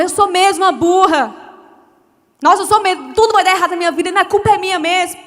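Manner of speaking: self-pitying lament. Retold or imitated. Mocking the self-doubting believer, defeated moan. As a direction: sigh it out like you give up. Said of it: "a gente acorda e fala".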